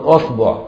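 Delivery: أصبع said asbuʕ with a after the hamza and u on the b; vowel variants. Shown as a demonstration. Teacher to students, أصبع said asbuʕ. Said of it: "يعني بضم وفتح وكسر الهمزة".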